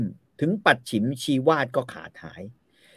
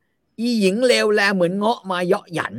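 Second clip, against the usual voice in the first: slow mock curse; 7 semitones higher, 4 dB louder, slower than usual. Usalen curses Wali.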